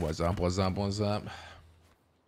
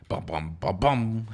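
mimicked ace sound; slower than usual. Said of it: "mimics the ace sound".

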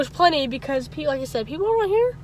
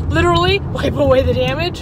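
louder, with a laugh on LITERALLY; laughing emphasis; 2 semitones higher, 5 dB louder than usual. Real, not acted. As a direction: hit "Literally" and laugh through the rest. Repeats the phrase, laughing.

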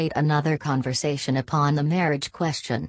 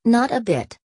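bright exclaim, higher; 7 semitones higher, 4 dB louder than usual. Acted. Happy reply after fainting scene.

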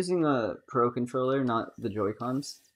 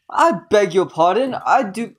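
a mock posh British accent, louder; 6 semitones higher, 9 dB louder than usual. Streamer voicing the old man's lines, mock British accent. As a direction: ham up an old British gentleman. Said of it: "I hate the British accent".

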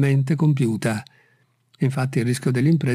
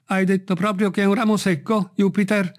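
raised-pitch, mildly anxious question; trembling cry; 6 semitones higher than usual. A narrator's reading. Master hearing the branch is dead, trembling cry. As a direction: ask with a touch of alarm. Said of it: "gridò Legrand con la voce tremante".

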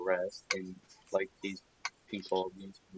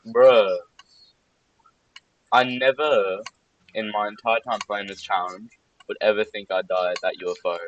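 frustrated shouting; 9 dB louder than usual. Real, not acted. Frustrated outburst after dying.

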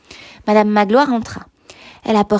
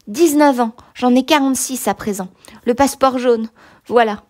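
bitter ex-convict; 3 semitones higher than usual. Acted. Convict lists his sufferings.

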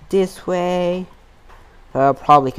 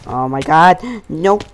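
louder panicked oh my god; panicked exclaim; 4 dB louder, slower than usual. Real, not acted. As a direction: blurt in panic. Panicked in fight.

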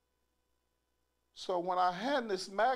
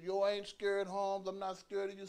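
higher Chicano tough-guy voice; Hispanic dude; 5 semitones higher than usual. Retold or imitated. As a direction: play the little dude talking big. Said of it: "he's a little Hispanic dude".

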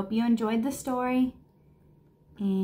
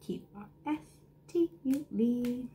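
hushed; 7 dB quieter than usual. A narrator's reading. Quiet echo of letters.

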